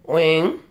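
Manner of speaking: "Wing" with a falling tone. Shown as a demonstration. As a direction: drop the pitch on "Wing". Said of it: "that going down".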